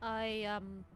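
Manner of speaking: quiet confession. Acted.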